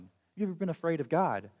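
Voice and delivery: quick insistent re-ask; rushed, urging second asking. Real, not acted. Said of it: "repeated question".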